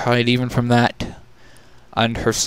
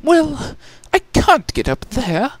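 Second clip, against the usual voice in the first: muttering. Acted. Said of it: "she muttered".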